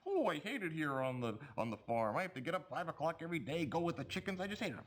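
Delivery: lightly voiced whiny dog, rushed in the middle; a hint of a grumbling dog; talking dog. Ventriloquist makes the dog complain about farm life, mildly voiced. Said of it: "throws his voice to make the dog say".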